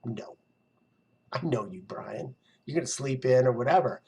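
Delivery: quietly doubting, the brain that knows better; skeptical inner voice. Retold or imitated. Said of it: "And my brain's like".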